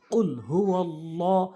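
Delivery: slow recitation with held long vowels; Quran recitation. Shown as a demonstration. Teacher building up the verse for learners, slow recitation. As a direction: recite slowly, syllable by syllable.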